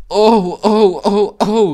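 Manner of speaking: high, loud shrieks of alarm; piercing repeated squeals; screeching wagons. A narrator's reading. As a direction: screech like startled freight wagons. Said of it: "riefen sie wieder".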